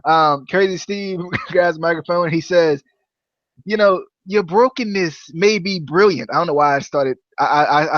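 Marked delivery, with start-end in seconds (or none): 3.6-6.3 lightly attempted Matt Hardy accent. Host quoting Crazy Steve in the wrong voice, Matt Hardy accent. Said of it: "started to go with the Matt Hardy accent".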